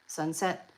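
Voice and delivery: sunset with the accent on SET; sun-SET, rising at the end; stress on second syllable. Shown as a demonstration. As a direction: put the weight on SET in sunset. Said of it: "the accent is on the sec".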